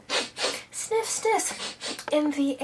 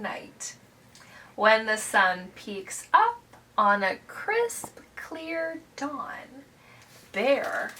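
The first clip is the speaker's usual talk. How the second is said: gentle read-aloud, hushed in places; bedtime story narration; 3 dB quieter, much slower than usual. A narrator's reading. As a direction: wind the story down with soft pauses. Reads a picture book to children.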